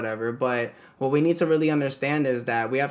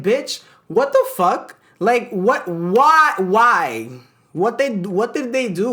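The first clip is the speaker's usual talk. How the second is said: exasperated yell; 6 semitones higher, 6 dB louder, slower than usual. Retold or imitated. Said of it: "I'm like".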